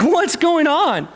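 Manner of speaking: mock puzzlement. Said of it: "He's like".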